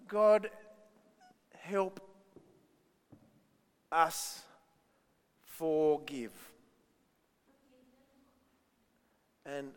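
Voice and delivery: langsam vorgesprochenes Gebet; slow prayer demo. Shown as a demonstration. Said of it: "So pray".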